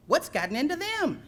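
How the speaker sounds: puzzled Eddie voice. Acted. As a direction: ask it as a drowsy, puzzled dog.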